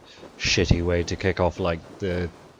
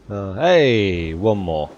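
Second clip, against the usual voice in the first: loud excited call; 2 semitones higher, 8 dB louder, much slower than usual. Real, not acted. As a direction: shout it out on spotting one. Calling out on spotting deer.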